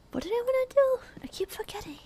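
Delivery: whispered question. Real, not acted. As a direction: whisper it to yourself. Whispered to herself.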